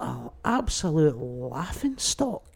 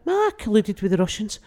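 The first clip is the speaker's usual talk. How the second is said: Trump impression; 5 semitones higher than usual. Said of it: "Two years later".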